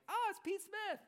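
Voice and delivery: very high, put-on British schoolboy voice; British schoolboy accent. British schoolboys spot Pete Smith, bad British accent. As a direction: badly imitate a British schoolboy. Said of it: "like, British schoolboys".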